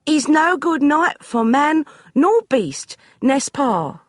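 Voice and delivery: excruciatingly bad fake French accent, high and slow; bad French accent from a fake maid. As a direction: ham up a phony French maid. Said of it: "excruciatingly bad French accent".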